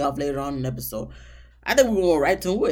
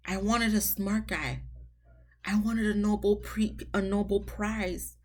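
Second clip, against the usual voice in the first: soft, slow imitation of an upset bride; understated mock disappointment, drawn out quietly; 3 semitones higher, 5 dB quieter than usual. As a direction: lightly mimic a disappointed sulk. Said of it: "she was just so upset".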